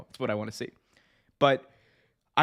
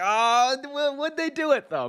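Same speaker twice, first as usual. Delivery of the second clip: hopeful surprise; 11 semitones higher than usual. Retold or imitated. Hopeful disbelief during the match.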